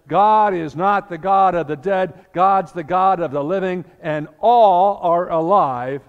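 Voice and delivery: triumphant sermon climax, God of the living; preaching. Retold or imitated. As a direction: let the truth ring out over them. Jesus' climactic rebuke.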